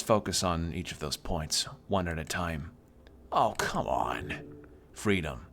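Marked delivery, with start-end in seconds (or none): 3.3-5.5 exasperated whisper. Real, not acted. Player sick of the long history lecture, exasperated whisper. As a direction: mutter under your breath, fed up.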